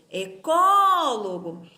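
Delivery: slow "Ecólogo", swelling on the second syllable; stressed syllable called out. Shown as a demonstration. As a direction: call out "Ecólogo", holding the CÓ. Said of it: "Eu chamo a palavrinha como se".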